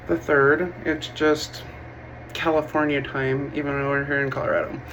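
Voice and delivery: talking with a retainer in; slightly lisped through a retainer; wearing a retainer. Real, not acted. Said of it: "I have my retainer in".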